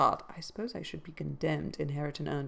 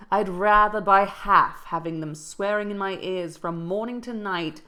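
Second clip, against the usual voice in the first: lightly voiced cranky old man; a hint of a scolding old servant; gruff old servant Joseph; 3 semitones higher, 5 dB louder than usual. Old Joseph scolding Nelly from the kitchen, lightly grumbling. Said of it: "said the tenant of the kitchen".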